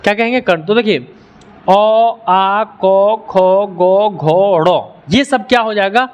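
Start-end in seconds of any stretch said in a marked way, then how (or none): 1.7-5.2 held, evenly spaced अ, आ, क, ख, ग, घ, ड़; teacher sustaining each of अ, आ, क, ख as a separate syllable; throat-sound demo. Shown as a demonstration. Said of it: "जिसका साउंड यहाँ से निकलेगा".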